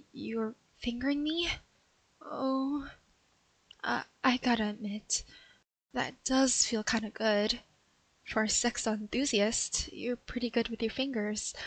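captured burglar quietly enjoying his touch; soft surprised pleasure. Acted. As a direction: give in despite herself. Pleasure while being touched.

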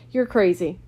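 sudden loud outburst; exploding. A narrator's reading. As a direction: burst out in exasperated anger. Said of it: "he exploded".

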